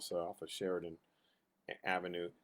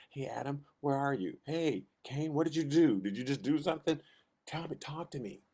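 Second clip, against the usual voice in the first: raised, higher calling voice; God calling out; 4 semitones higher, 6 dB louder than usual. Acted. God calling out to Adam and Cain, raised and higher. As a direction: call out like God searching for them.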